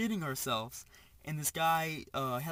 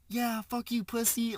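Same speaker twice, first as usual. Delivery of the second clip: loud, high taunt; cocky shout, pitched up and punchy; retold jeer; 8 semitones higher, 6 dB louder, slower than usual. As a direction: imitate a friend yelling a parting insult. Friend yells insult while leaving.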